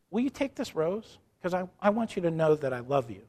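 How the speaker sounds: soft, tender retelling; quiet, earnest reassurance; gentle offer. Retold or imitated. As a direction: offer it softly and kindly. Retold gentle offer of a rose.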